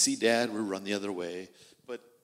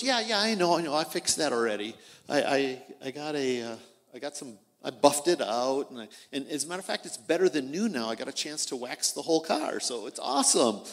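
cheerful dad; 2 semitones higher, 6 dB louder, faster than usual. Acted. Dad reassuring his son about the car, fast and upbeat. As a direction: rattle it off like a dad who already fixed it.

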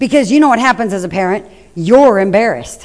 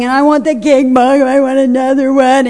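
a hint of a whining toddler; lightly voiced begging three-year-old; whiny child; 3 semitones higher than usual. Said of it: "she just keeps whining and crying".

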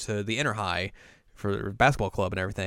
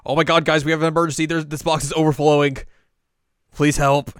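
high, loud emergency plea; frantic acted alarm, pitched up; mock panic; 7 semitones higher, 9 dB louder than usual. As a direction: burst in with a hammed-up cry for help. Frantic character announcing an emergency.

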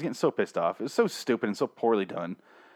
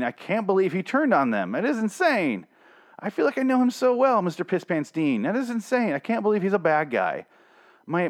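hammed-up disbelief, pitched higher; sarcastic mock shock; 6 semitones higher than usual. Podcaster mocking the Dean twist for listeners, sarcastic higher voice. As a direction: play fake devastation, dripping with irony.

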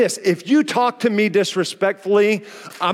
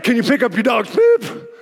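mock shout; 2 semitones higher than usual. Stranger shouting at the pastor about the poop, mock shout. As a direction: bark the demand across the field.

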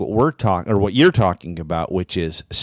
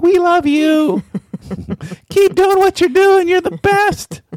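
very high, slow, sweet voice of a dog; 7 dB louder than usual. Pretend. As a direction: speak as the adoring pet dog. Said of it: "that's the dog voice he's doing".

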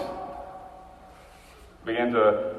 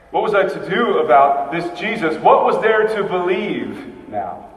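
anguished questions; 5 semitones higher, 6 dB louder than usual. Acted. Thomas questioning in despair.

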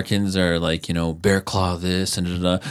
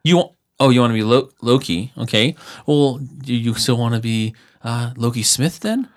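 hammed-up bemused parent, higher pitched; a dad humoring his son, voice pitched up; mock parent; 4 semitones higher than usual. Parent humoring son who picked Loki Sky Lizard, higher.

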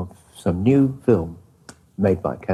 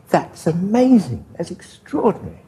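amazed; 10 semitones higher than usual. Retold or imitated. Narrator retells his amazed reaction.

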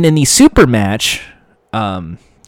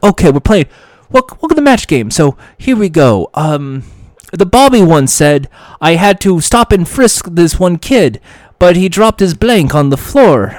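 lightly voiced chirpy British host, higher; mock British host; 4 semitones higher than usual. A host opening the show, mock British presenter. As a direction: breeze through it like a cheerful BBC presenter. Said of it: "Terry Wogan's just basically going like".

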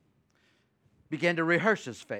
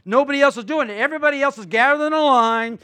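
ordinary talk

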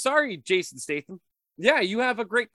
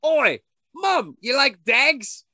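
loud, higher mock Cockney British accent; 6 semitones higher, 8 dB louder, slower than usual. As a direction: bark it like a rowdy British lad. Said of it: "probably the British version".

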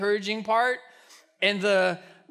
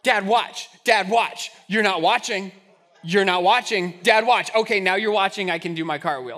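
pestering daughter; 3 semitones lower, 3 dB louder than usual. Retold or imitated. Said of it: "she would wait".

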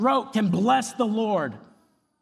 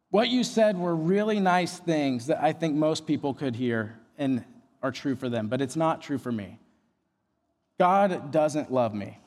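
low, subdued, resigned quote; retold despondency; 6 semitones lower than usual. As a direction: voice sinking as he admits it. Retold hopeless man, God doesn't love him.

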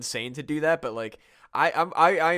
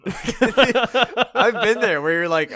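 slow, laughing through words; 8 semitones higher, 7 dB louder, much slower than usual. Real, not acted. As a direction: talk while laughing hard. Laughing while speaking.

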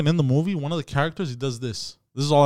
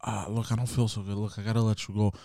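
suddenly feeling sick; 3 semitones lower, 9 dB quieter than usual. Retold or imitated.

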